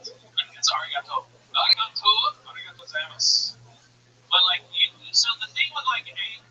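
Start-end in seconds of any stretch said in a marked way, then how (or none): 0.1-1.3 Japanese accent. Shown as a demonstration. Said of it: "you can't do Asian accents". 1.5-3.6 Japanese accent. Shown as a demonstration. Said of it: "you can't do Asian accents".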